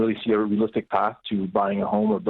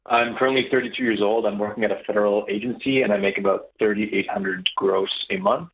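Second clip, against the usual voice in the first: muffled speakerphone sound; inside a barrel. Real, not acted. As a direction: caller boomy and hollow. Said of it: "You sound like you're in a barrel".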